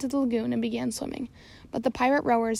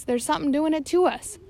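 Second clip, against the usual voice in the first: shout; 4 semitones higher than usual. Acted. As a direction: shout the excuse up at him. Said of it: "shouted the pirates".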